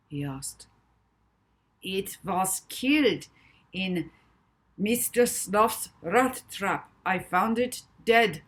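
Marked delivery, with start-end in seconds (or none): 1.8-8.4 put-on slow, grieving German accent; sad German accent. A narrator's reading. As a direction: recall the loss, German accent. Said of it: "his adopted German accent".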